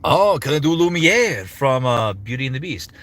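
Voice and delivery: French accent. Shown as a demonstration. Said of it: "my French accent".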